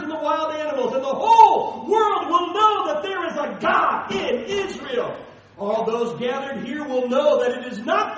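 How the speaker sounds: loud, building battle cry ending in a shout; defiant proclamation. Retold or imitated. David defying Goliath before two armies, loud and rising to a shout. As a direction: declare it boldly to the giant.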